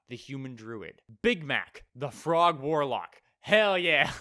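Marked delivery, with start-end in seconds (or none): 3.4-4.1 loud, higher whoop of approval; loud real cheer; cheering hell yeah. Real, not acted. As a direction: cheer for the frog. Cheering for the frog warlock.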